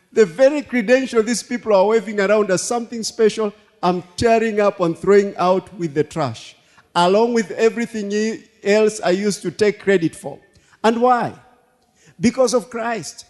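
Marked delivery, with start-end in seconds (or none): 0.1-10.4 preaching read. Shown as a demonstration. Preacher rereading scripture to the church, louder. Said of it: "Listen to the same scripture".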